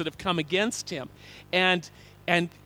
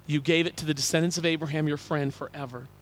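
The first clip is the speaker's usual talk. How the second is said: fond repetition; 3 semitones lower than usual. Real, not acted. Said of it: "I've always loved that, that phrase".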